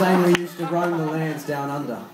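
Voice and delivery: put-on Australian-accented reminiscing; playful Aussie storytelling. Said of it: "I want Australian accent".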